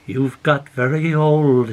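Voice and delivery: slow, gently teasing; mild smiling tease. Acted. River teasing the grown man, slow and gentle. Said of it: "it smiled".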